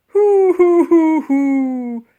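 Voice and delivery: high, loud bumping hoots; yelping hoots. A narrator's reading. Woolly sliding down the stairs, yelping hoots. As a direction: yelp at every step. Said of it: "little yelp she let out".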